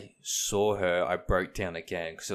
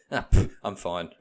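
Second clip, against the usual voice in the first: louder, offhand brush-off; dismissive wife; 7 dB louder than usual. Retold or imitated. Wife brushing off her husband's worry with a loud scoff. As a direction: wave it away with a scoff.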